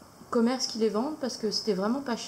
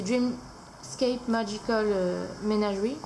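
English title in a French accent; slower than usual. Real, not acted. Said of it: "désolé pour mon accent anglais". (anglais avec un accent français)

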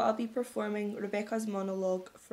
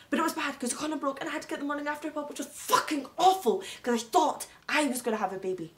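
louder outburst, swear word stretched; agitated rant; 3 semitones higher, 5 dB louder than usual. Acted. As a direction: build into an exasperated complaint. Agitated rant about pregnancy scare.

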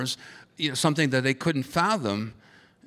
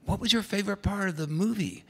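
put-on higher, lilting question to a little kid; raised, kid-friendly pitch; talking to child; 9 semitones higher than usual. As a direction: ask as if to a young child. Adult asking an excited little girl.

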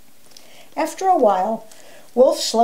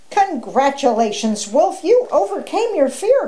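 proud cheer, jumping high on the praise; crowing; 6 semitones higher than usual. A narrator's reading. Alfred praises Wolf for overcoming fear, crowing. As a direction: congratulate with rising delight. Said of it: "crowed Alfred".

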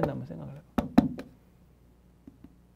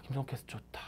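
lazy student whispering to himself; a mock student murmuring under his breath; 5 semitones lower, 14 dB quieter than usual. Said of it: "이런 사람들 있지?".

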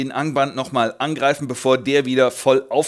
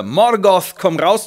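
louder, higher hammed-up yell; mock challenge shout; 5 semitones higher, 6 dB louder, slower than usual. Fingolfin at Morgoth's gates, hammed-up shouted challenge. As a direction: call him out like a comic hero. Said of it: "und brüllt".

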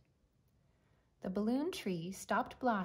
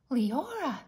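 gasped; 6 semitones higher, 7 dB louder than usual. Acted. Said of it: "the king gasped".

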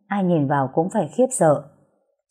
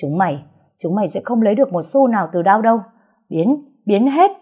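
furious man driving off gangsters; seething growl; 4 semitones higher, 4 dB louder than usual. Acted. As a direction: throw the thugs out with rage. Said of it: "gằn giọng nói".

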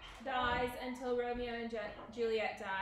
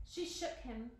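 ordinary delivery

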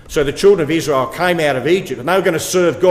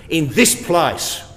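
"this place" leaned on deliberately, "place" pitched higher; emphasis on THIS PLACE; 4 semitones higher, slower than usual. Retold or imitated. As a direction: read it slowly, stressing "this place". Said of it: "that little emphasis on the word".

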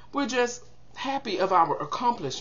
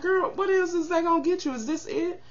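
friend's scornful voice; 10 semitones higher than usual. Retold or imitated. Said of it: "she was like".

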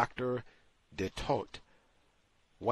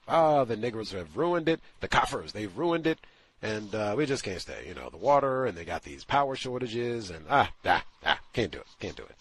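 louder mocking voice of a fretful white South African; 4 dB louder than usual. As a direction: lampoon their complaints, wailing at the end. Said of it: "She said, in fact".

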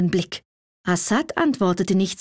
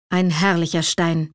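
lower, dark and heavy ein herrlicher Stein; gloomy repeat; 4 semitones lower than usual. A narrator's reading. Assad echoing the old man's praise, gloomy and lower. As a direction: echo the praise gloomily, clutching it jealously. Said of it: "wiederholte Assad düster".

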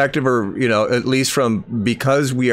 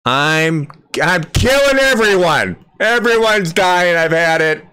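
much higher and louder, seething; hateful rant; 5 semitones higher, 3 dB louder than usual. Retold or imitated. Host parodies the prophetess as hateful, loud and high. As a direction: spit it out like pure hatred. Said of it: "This is a voice of hatred".

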